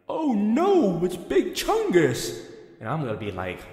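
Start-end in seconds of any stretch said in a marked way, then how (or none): 0.1-2.5 mock scared gasp. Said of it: "You're gonna be like".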